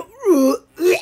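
grunting like a crazy cat; imitated cat noise. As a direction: mimic a cat's odd little noise. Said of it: "and then they go".

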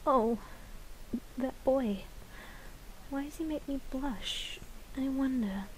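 put-on a dreamy, blushing girl; shy flower girl. Flower girl daydreams about the boy, hushed and soft. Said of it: "vocal lines for that flower girl".

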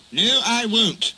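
high, slow, indignant refusal; cross. A narrator's reading. Barber refusing Duck's apology, crossly. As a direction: refuse crossly, drawing out each word. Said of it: "said the barber crossly".

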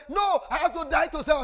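high, forceful imitated objection; acted loud protest. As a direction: cry out a loud refusal as the friend. Retold protest of Brother Aziz.

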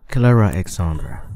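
sharp, loud full name; stern full-name call. Acted. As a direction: call her name like a scolding. Scolding her by full name.

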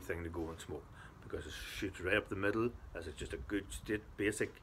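talking around pipe stem; pipe in mouth. Real, not acted. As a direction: hand at mouth. Seen 0: Right hand holds pipe at his mouth throughout the labelled words.

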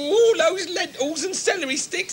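weepy list of diet foods; crying. Acted. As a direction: sob through the list. Crying about diets.

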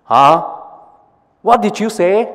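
loud puzzled huh then high question; deaf ears. Acted. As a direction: play hard of hearing. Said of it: "says the ears".

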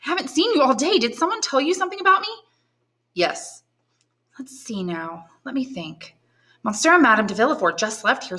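lightly voiced anxious girl; young granddaughter. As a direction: puzzle it out aloud. Valentine talks to grandfather.

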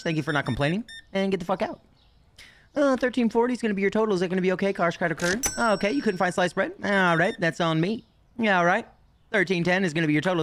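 brisk, fast customer-service patter; cashier voice. Pretend. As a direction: rattle off totals like a rushed clerk.

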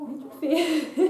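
laughing through the words. Real, not acted. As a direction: break into a laugh. Laughs at own mock.

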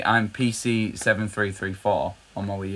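stiff mechanical robot cop voice. Real, not acted. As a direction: read the numbers like a robot. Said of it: "You sound like a Robot Cop".

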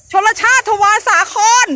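calling the name out over traffic noise; shouting. Real, not acted. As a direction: raise your voice to beat the passing cars. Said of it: "จะตะโกนทำไมวันนี้".

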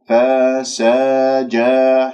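"فسجا" very slowly, each a vowel open and distinct; clear fatha vowels. Shown as a demonstration. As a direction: spell out each fatha of "فسجا" in a slow chant. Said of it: "شوف الحركات الفتحة".

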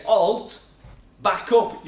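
mock military shout; soldier's command. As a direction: order them back like armed troops. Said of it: "they say".

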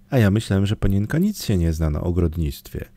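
ordinary delivery

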